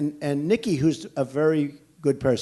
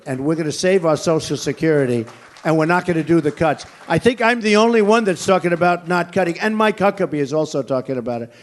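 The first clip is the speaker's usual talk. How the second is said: louder, driving each phrase home; raised rally voice; 6 dB louder than usual. Real, not acted. To the rally crowd about Social Security, loud and driving. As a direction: push it out to the back of the hall.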